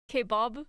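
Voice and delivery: "kebab" mimicked as keh-BAHB, low and rising; imitating kebab. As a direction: imitate her "kebab" with a broad AH. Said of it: "The way you say it sounds more like".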